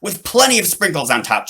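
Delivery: high, loud, keen; eager order. Acted. Boy orders from the robo chef, high and eager. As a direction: order it like a happy kid. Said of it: "Charlie ordered".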